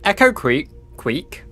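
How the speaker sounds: "Creek" with a w for the r, like "kweek"; "Echo Creek" said as "Echo Kweek"; says w for r. Real, not acted. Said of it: "Sorry, I can't pronounce my R's".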